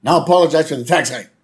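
very high, loud gloating whoop; Homer. Retold or imitated. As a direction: crow in triumph as a cartoon dad. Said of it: "Homer goes".

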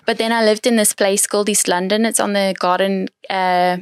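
light South African accent, relaxed storytelling. Shown as a demonstration. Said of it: "if I speak like this".

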